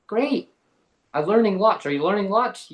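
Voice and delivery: put-on high, bright child answer; mock-innocent kid chirping back; cheery kid voice. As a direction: play your chirpy young self.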